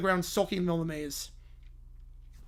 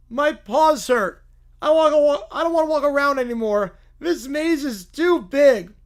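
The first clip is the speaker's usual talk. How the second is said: put-on whiny little kid; 5 semitones higher, 7 dB louder than usual. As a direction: whine like a tired kid stuck in a maze. Reads story in whiny kid voices.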